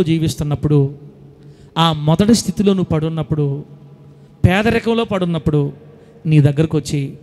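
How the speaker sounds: lightly voiced Jesus, low and measured with long pauses; Jesus' questioning look. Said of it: "అన్నట్టుగా ఉంది ఆయన చూపులు". (యేసు అడుగుతున్నట్టు తగ్గు స్వరంలో నిలదీత)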